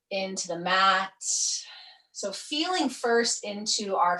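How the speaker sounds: measured yoga nidra voice with pauses between phrases; guided meditation. Acted. Yoga teacher guiding students to sink into the earth, guided meditation. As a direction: ease them down, drawing out phrase endings.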